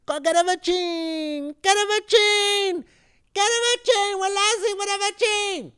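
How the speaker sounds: very high, loud cartoon Italian accent; stereotypical Italian accent. Host translating Caballo Negrito in a loud Italian voice. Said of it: "problematic Italian, uh, stereotypical voice".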